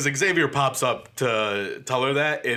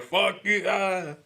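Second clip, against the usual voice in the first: mock psychic blast; 10 semitones higher, much slower than usual. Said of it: "it just hits her so hard".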